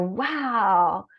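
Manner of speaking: a hushed, breathless imitation of him; whispered wow. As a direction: whisper it in awe. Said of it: "his tone of voice".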